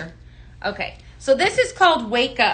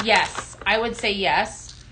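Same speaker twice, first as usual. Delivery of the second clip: usual speaking voice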